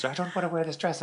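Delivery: high-pitched mock refusal; mild put-on tantrum; imitated fit. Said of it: "having a fit".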